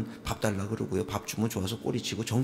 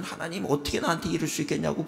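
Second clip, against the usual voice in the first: complaining; 6 semitones higher than usual. Retold or imitated. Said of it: "불평하고 원망하겠지만".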